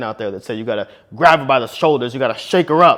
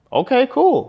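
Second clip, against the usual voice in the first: dismissive; 11 semitones higher, slower than usual. Retold or imitated. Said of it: "dismissive reply".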